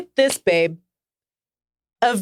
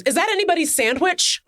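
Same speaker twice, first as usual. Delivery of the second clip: laughing Ant-Man quote; 7 semitones higher than usual. Retold or imitated. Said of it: "a really funny line read".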